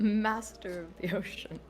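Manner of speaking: mocking chuckle; chuckling. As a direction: repeat it with a snicker. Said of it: "Rodrigo sort of chuckles".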